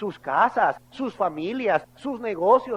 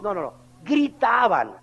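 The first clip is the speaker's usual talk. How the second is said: ordinary talk, nothing marked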